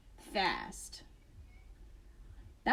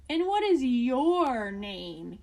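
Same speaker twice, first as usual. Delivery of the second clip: polite inquiry; slower than usual. Acted. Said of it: "he inquired".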